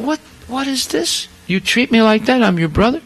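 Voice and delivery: pitched well up in hurt indignation; an insulted brother demanding an explanation; retold outrage, high and incredulous; angry Shiva. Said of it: "He gets so angry".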